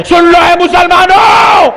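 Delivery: rally the whole crowd; calling out. Real, not acted. Preacher calls out to the congregation.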